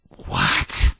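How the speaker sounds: breathless, voiceless gasp of disbelief; stunned whispered what. Retold or imitated. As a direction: mouth the word in shock, barely a breath. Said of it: "And I'm like".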